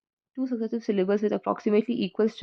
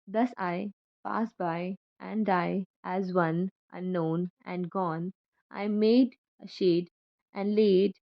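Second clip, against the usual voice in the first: poem reading; slower than usual. Acted. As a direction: read it slowly, like words carved on a gravestone. Reads Herrick's epitaph poem.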